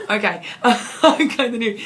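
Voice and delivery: loud, laughing Scottish catchphrase; Scottish accent. Shown as a demonstration. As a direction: throw in a loud mock-Scottish line with a laugh. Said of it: "my Scottish".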